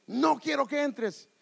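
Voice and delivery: high, loud, drawn-out mock refusal; imitated tantrum shout; shouting child. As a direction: yell it slowly like a bratty kid. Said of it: "le grita, le levanta la voz".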